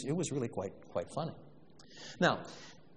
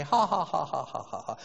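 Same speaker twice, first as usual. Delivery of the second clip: mock canned laughter. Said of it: "the track is laughing away".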